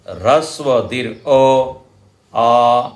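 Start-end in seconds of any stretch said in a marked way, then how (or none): 2.3-2.9 आ held for double length; long vowel. Shown as a demonstration. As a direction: stretch आ to twice a short vowel. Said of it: "दुगुना समय". (आ को दुगुना लंबा खींचें)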